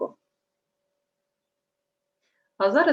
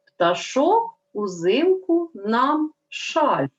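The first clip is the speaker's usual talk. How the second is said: wrong version read aloud; 4 semitones higher, much slower than usual. Shown as a demonstration. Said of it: "послухайте речення і скажіть, чи правильно".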